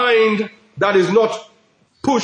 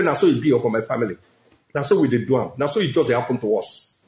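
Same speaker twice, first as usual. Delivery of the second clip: much lower, quick grumbling pidgin lament; mock pidgin complaint; 9 semitones lower, 4 dB quieter, faster than usual. Preacher mocks a doubter's gloomy talk, low grumble. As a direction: mimic a gloomy believer moaning about his family. Mocking a negative confession.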